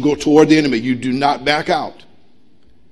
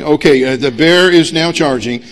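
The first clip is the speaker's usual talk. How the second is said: slow, loud pretend read-aloud; hammed-up deliberate step-by-step reading; mock instruction reading; 4 dB louder than usual. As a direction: act out reading directions painstakingly, word by word. Acts out reading instructions during charge.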